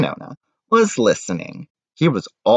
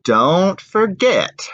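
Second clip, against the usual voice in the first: father baker; 9 semitones higher, 4 dB louder, much slower than usual. Acted. Father voiced in read story.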